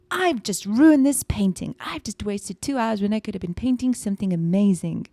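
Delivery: put-on a small sad kid giving up; inner child voice. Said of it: "I gave my inner child the voice".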